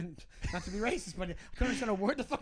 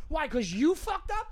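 loud, slow taunt; slow angry taunt at the delivery guy; fuming taunt; 7 semitones higher, 7 dB louder, slower than usual. Retold or imitated. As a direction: drag it out to provoke him. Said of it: "And I go".

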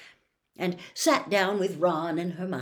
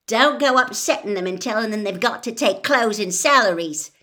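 warningly; 4 semitones higher, 8 dB louder than usual. A narrator's reading. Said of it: "said Fred warningly".

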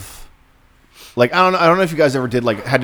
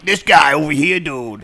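higher, put-on bro voice; bragging Maine guy; 3 semitones higher than usual. Comedian voicing Welcome to Maine's bragging dude, put-on voice. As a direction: show off your buddy, bro style. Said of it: "the idea of Welcome to Maine. It was like".

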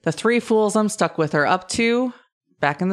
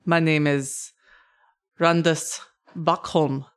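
put-on halting dwarf with a German accent; tentative German-style accent for a craftsman. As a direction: try a German accent, feeling for each phrase. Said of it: "it sounded very German".

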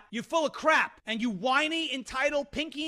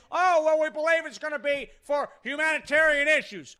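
lightly voiced dismissive official; a hint of a smug politician; mock official excuse; 3 dB louder than usual. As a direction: sneer it like a smug spokesman. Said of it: "and then said".

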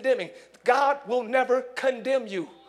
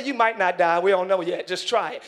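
lightly voiced tempter, lower pitch; enemy's voice; 6 semitones lower than usual. Preacher suggesting subtler words for the enemy, lightly acted low coaxing. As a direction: coax in a lowered voice. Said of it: "the enemy's voice".

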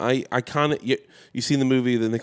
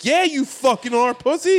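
retold angry retort; 13 semitones higher, 3 dB louder, slower than usual. Retelling his furious reply.

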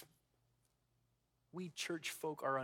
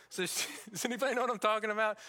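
laughing; 8 semitones higher, 8 dB louder, much faster than usual. Real, not acted. Laughing aside to congregation.

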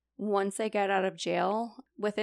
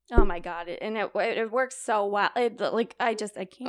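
overwhelmed gush; 6 dB louder than usual. Real, not acted. Overwhelmed by how well it works.

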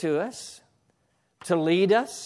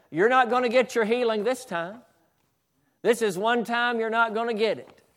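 the devil's taunt; 5 semitones higher than usual. Retold or imitated. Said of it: "the devil said to him".

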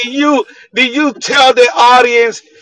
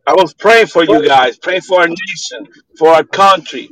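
tin can sound; 5 semitones lower than usual. Real, not acted. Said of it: "You sound like you're in a tin can".

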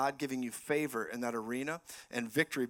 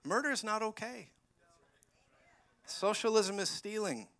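mocking imitation; 7 semitones higher than usual. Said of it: "when people are like".

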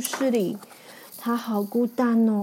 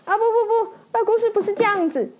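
gingerbread man voice; 8 semitones higher, faster than usual. Acted. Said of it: "姜饼人说".

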